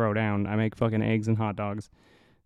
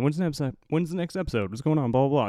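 higher, lightly mocking impatient fan voice; 4 semitones higher, faster than usual. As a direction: mimic nagging followers, pitched up a bit. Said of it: "everybody online is like".

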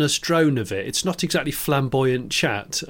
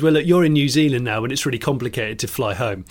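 goading Noel impression. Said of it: "Noel's just goads him and goes".

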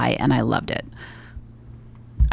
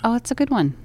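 whispering; 7 semitones higher than usual. Real, not acted. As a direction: whisper it, savoring. Whispered food praise.

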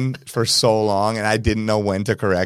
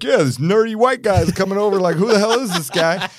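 imitating a rapper; 8 semitones higher than usual. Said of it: "He's like".

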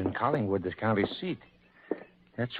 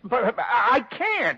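high, loud, sputtering panic; panicked stammer; 12 semitones higher, 7 dB louder than usual. Acted. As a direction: blurt it out in sheer panic. Owner panics, pitch jumps.

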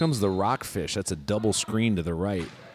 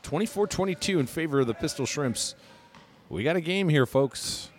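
higher, excited sportscaster call; 5 semitones higher than usual. Acted. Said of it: "my sportscaster voice just showed up".

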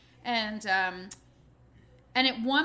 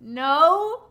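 fake innocence; 3 semitones higher, 9 dB louder, much slower than usual. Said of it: "I'm like".

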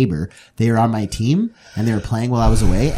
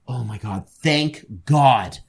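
acted relief; slower than usual. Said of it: "the best performance I've ever put on".

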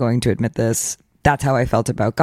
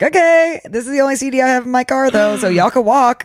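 high mock sass; 9 semitones higher than usual. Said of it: "I was like".

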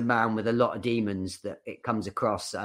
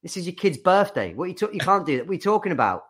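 higher, mock-outraged wife voice; 7 semitones higher, faster than usual. Husband walks out of kid's party, mock outraged wife. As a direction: squeak out the wife's outrage. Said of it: "his missus is like".

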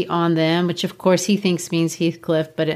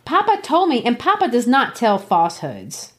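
put-on indignant girl; 4 semitones higher than usual. Kathy arguing with Linton.

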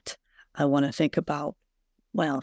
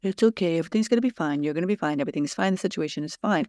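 a soothing, placating "it's okay", pitched up a little at first; smooth things over, people-pleasing; fawning reassurance; much faster than usual. Retold or imitated. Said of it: "When I fawn".

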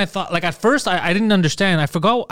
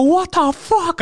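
retold outburst; 13 semitones higher, much slower than usual. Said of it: "I was just going crazy".

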